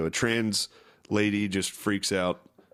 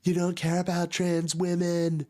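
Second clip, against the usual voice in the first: higher indignant question; accusing trans woman; 9 semitones higher than usual. Retold or imitated. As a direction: call her out, pitched up. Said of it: "this trans dude is like".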